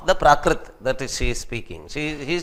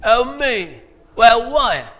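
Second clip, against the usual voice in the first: higher, louder clipped greeting; imitated African American slang; 7 semitones higher, 5 dB louder, much slower than usual. Teacher mimics how friends call each other homie, higher. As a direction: say it like street slang. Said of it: "They just say".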